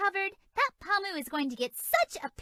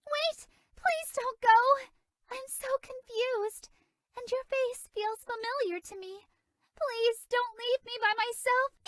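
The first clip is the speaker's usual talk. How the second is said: pleading; 6 semitones higher than usual. Acted. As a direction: plead with them not to leave her alone. Confused fairy begging not to be left.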